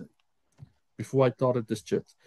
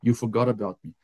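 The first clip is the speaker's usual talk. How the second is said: low, dejected retold lament; depressed; 4 semitones lower than usual. Finds no check, tells God, depressed. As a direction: say it lower, mildly downcast. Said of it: "so depressed".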